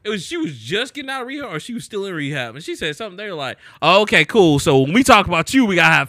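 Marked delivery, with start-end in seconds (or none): 3.8-6.1 sarcastic retort. Retold or imitated. Quoting critics retort.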